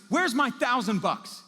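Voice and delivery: loud, high, drawn-out shout; furious creditor yelling, words stretched; angry demand. Acted. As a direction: demand it as if grabbing him by the collar. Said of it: "he grabs the guy and he says".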